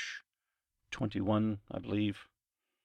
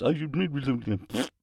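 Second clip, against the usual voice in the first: slow, surprised I admit; 4 semitones higher, much slower than usual. Acted. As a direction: gasp it out in surprise. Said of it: "that was a kind of a surprise one".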